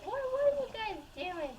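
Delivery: mock-curious dad at dinner; suspicious dad. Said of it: "my dad's like".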